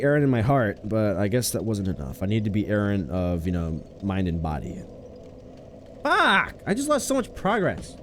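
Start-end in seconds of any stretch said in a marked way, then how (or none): 6.0-8.0 cracking high yelp of frustration; real voice crack on a curse. Real, not acted. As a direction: voice breaks upward into a shriek. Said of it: "my voice cracked".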